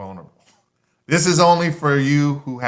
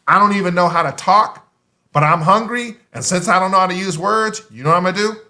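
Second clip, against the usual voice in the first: lightly voiced baby, higher and louder; a hint of a hungry newborn pleading; a touch of baby voice, no words yet; baby talking; 4 semitones higher, 3 dB louder, faster than usual. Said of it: "like a baby".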